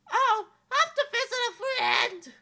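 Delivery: high, loud laughing cover-up; princess nervous laugh. Acted. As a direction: laugh off the question.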